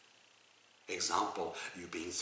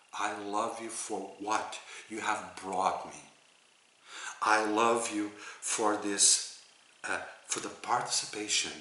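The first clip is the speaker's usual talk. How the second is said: soft prayer. Shown as a demonstration. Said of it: "So you say".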